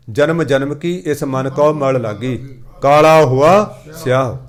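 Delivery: very slow, drawn-out verse, swelling at the close; scripture recitation. Acted. Preacher citing Gurbani on the stained mind, slow recitation. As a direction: recite deliberately, lengthening the vowels.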